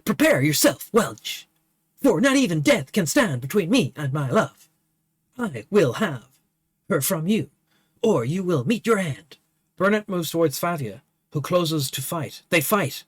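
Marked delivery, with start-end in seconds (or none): 0.0-9.4 a lightly voiced knight issuing a bold challenge; heroic challenge. Burnett threatening Welch before the duel, bold.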